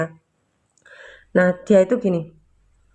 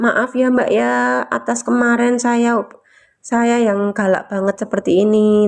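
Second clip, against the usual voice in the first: slow apology; slower than usual. Retold or imitated. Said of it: "Bilang kayak gini".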